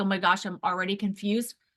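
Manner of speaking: usual speaking voice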